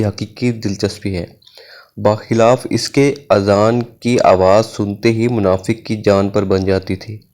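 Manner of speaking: measured, emphatic commentary reading; formal reading aloud. Real, not acted. Teacher reading commentary on prayer to listeners, formal reading aloud. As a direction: read a religious text out deliberately.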